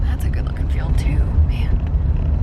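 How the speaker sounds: hushed whisper in the field. Real, not acted. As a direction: whisper so the birds won't hear. Whispering while stalking turkeys.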